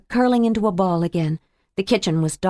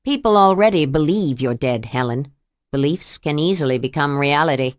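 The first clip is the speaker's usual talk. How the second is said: menacing abuser; 4 semitones lower than usual. Acted. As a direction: lower slowing villain voice. Abuser threatens.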